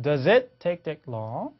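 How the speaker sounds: "Does it take that long" slow, da-zit; linking demo. Shown as a demonstration. Teacher repeating the clip, "Does it" linked slowly. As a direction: slowly join "Does it" in the question. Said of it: "영국 사람 발음도 크게 다르지 않다".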